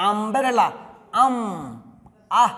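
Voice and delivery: আমব্রেলা broken down to আম, then the opening vowel আহ; teacher isolating the আহ sound that starts আমব্রেলা; pronunciation demo. Shown as a demonstration. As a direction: sound out আমব্রেলা in shrinking pieces, down to আহ. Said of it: "কারণ এটার উচ্চারণ হচ্ছে".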